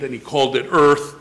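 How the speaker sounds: earth punched as the key word, falling firmly; stress on earth. Shown as a demonstration. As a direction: lean hard on the word earth at the end. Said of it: "that's where we emphasize the word earth".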